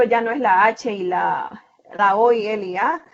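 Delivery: H, O, L, A each named as a separate letter; spelling out letters. Shown as a demonstration. Teacher spells hola for students, letter by letter. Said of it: "sino que ya es hola".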